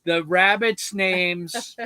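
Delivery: slow announcement, leaving a pause after; suspenseful reveal. Real, not acted. Host revealing rabbits' names to viewers, slow and suspenseful. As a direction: hold back the big reveal.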